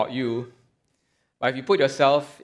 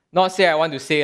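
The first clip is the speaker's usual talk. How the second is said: Singlish; faster than usual. Retold or imitated. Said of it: "paraphrase this in Singlish".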